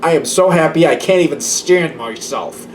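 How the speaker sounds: forced, saccharine happiness; sarcastic fake cheer. Sulky person insisting they are happy, sarcastic.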